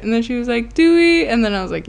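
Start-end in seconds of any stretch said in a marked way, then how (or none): 0.7-1.3 high, loud imitated question; mock-excited high voice; eager mom. Mom's hopeful question, retold.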